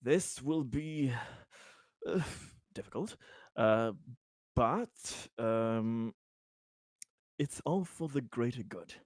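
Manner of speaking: lightly voiced hesitant reassurance, halting between phrases; Conrad, earnest and careful. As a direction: reassure carefully, searching for each word.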